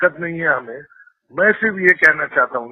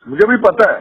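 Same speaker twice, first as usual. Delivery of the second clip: raised tone; 4 semitones higher, 3 dB louder than usual. Real, not acted. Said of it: "क्यों tone high कर रहे हो sir?".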